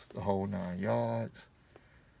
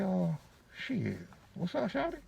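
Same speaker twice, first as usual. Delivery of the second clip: smooth pickup line; 9 semitones higher, 4 dB quieter than usual. Retold or imitated. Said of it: "She kinda looked at me and smiled".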